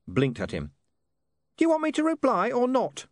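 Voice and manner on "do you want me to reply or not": imp voice. Acted. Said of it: "it said".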